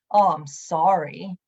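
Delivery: slow, careless throwaway sorry; offhand sorry. Shown as a demonstration. Mocking the insincere kind of apology she avoided. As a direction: toss the apology off without meaning it. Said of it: "With this tone of voice".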